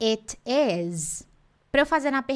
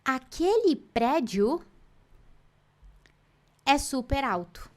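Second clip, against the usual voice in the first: admiring wow; much slower than usual. Shown as a demonstration. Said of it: "a gente vai falar assim".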